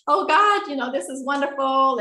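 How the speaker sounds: high-pitched imitation of a delighted friend; mildly gushing amazement; retold rejoicing. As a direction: voice a friend's wonder, pitch lifted.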